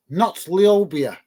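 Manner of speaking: "Liobia" sounded out slowly and tentatively; unsure pronunciation. Real, not acted. Streamer slowly guesses at a viewer's odd name. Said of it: "not even sure if I'm pronouncing that correctly".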